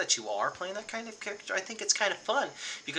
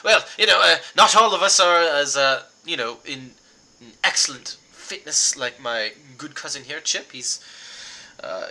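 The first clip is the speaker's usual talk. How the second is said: sweaty excuse; 7 dB louder than usual. Acted. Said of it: "he's, like, sweaty".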